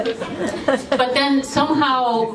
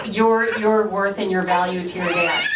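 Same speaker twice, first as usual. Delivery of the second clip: voice breaking. Real, not acted. Sister tearing up at eulogy.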